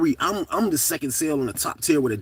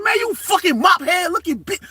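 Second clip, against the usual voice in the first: retold furious yelling; 13 semitones higher than usual. Inmate yelling at the officer who opened his door. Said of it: "Man, I snapped".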